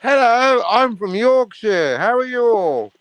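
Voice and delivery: hammed-up Yorkshire accent greeting; a light Yorkshire accent; mock Yorkshire. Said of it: "That's a perfect Yorkshire accent".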